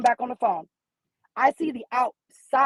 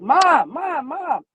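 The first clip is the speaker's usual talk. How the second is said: retold yell. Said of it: "she was yelling".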